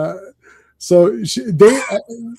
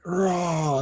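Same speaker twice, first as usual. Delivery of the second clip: drawn-out mock roar; imitated cat roar; 11 dB quieter than usual. Comic fan acts out Tigra jumping at Jarvis, mock roar. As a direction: roar like a pouncing cat, played for fun.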